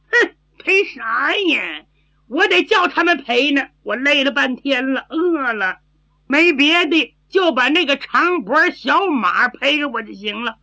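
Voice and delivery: lightly voiced silly girl arguing back; a touch of a sulky, foolish girl bargaining; simple-minded girl, demanding. (略带傻气的丫头讨赔)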